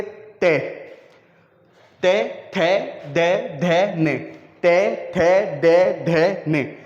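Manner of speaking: ते थे दे धे ने said one by one, tongue on the teeth; teacher repeating ते थे दे धे ने for pupils to copy; sounding out dental syllables. Shown as a demonstration. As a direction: tap each of ते थे दे धे ने clearly against the teeth. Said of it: "आप जैसे ते का उच्चारण स्थान करेंगे".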